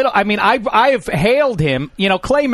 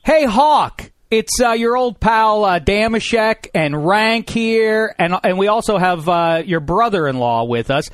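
answering machine message. Real, not acted. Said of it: "leave him a nasty message then".

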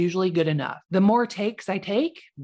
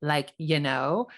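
put-on Valley Girl; 3 semitones lower than usual. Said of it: "that Valley Girl way of talking".

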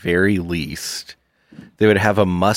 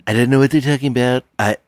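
baffled man; 7 semitones higher, much faster than usual. Acted. Voicing a baffled modern man.

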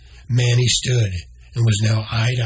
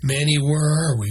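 raised higher urgent question; asked loudly; 5 semitones higher than usual. Acted. Noah demanding answers from Manny, higher urgent call. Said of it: "Noah asked loudly".

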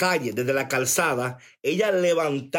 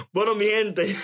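words with a laugh in them; chuckling farewell to the viewers; 4 semitones higher than usual. Real, not acted. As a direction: try to go on while still laughing. Laughing while wrapping up.

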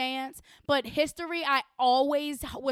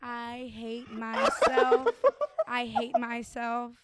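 slow, groaning self-reproach; mock despair; 2 semitones lower, much slower than usual. Real, not acted. Embarrassed by her own slip, mock despair, slow. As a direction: drag it out in mock shame. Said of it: "I said Helen Keller".

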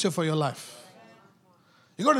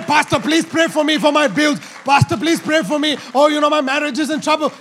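mildly whiny begging, said loud over the preaching; mock pleading believer; 5 semitones higher, 7 dB louder than usual. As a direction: imitate a believer begging the pastor, lightly mocking. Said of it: "You can't say".

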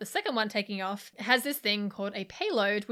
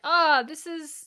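flustered wife; 6 semitones higher, slower than usual. Retold or imitated. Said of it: "she's like".

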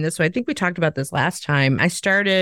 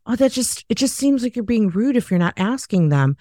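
objecting trainee; 5 semitones higher than usual. Retold or imitated. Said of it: "they're like".

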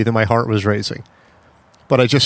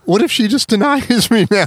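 high-pitched mock fretting; retold panic; 9 semitones higher than usual. Caller fearing denial after the hang-up, retold panic. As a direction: replay your worry, pitched way up. Retells worry about being denied.

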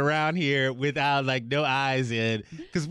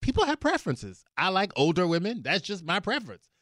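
higher-pitched, casual mock explanation; matter-of-fact; 5 semitones higher than usual. Interviewed brother defending preferences from jail, mock matter-of-fact. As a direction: imitate someone breezily explaining himself, pitch up. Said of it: "he is speaking matter-of-factly".

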